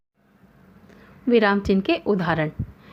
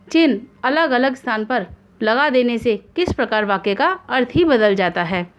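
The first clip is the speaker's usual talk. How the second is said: ordinary talk, nothing marked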